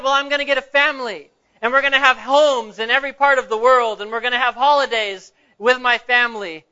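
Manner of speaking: a touch of impatience, insisting on his plans; starting to get annoyed. Acted. Boy answering the old pastor's repeated question, mildly annoyed. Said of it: "The boy was starting to get annoyed".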